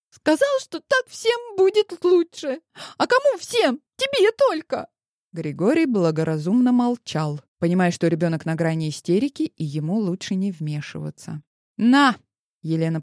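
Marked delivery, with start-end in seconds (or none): 0.1-4.9 much higher, louder tearful outburst; a teen near hysterics blaming mom; high, loud hurt girl; distraught girl. A narrator's reading. Daughter on the verge of hysteria. 11.8-12.2 sharp command. A narrator's reading. Mother thrusts the phone.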